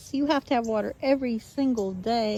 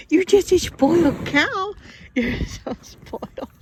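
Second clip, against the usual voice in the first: playful teasing; 4 semitones higher, 5 dB louder than usual. Real, not acted. Teasing the cow.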